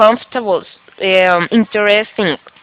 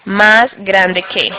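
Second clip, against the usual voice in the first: slow repeat; much slower than usual. Shown as a demonstration. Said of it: "Aquí estoy diciendo".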